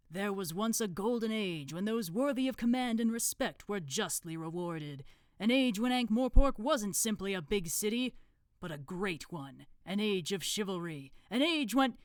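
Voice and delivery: lightly voiced grand orator; Supreme Grand Master. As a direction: build a solemn speech about a lost golden age. Grand Master's ceremonial speech.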